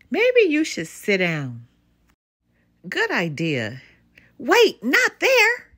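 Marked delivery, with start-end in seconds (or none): 4.4-5.7 high, loud, slow cry of alarm; alarmed warning. Acted. Mama Bear shrieks at Papa Bear about to sit, alarmed. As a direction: shriek it as he sits down wrong.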